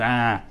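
short mock groan; a brief "ah" groaned out; imitated groan. Acting out the groans of those who couldn't speak, low-key groan. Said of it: "they groaned".

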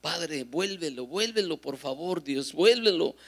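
earnest retold supplication; pleading prayer. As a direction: beg God repeatedly, drawing words out. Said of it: "yo comencé a orar".

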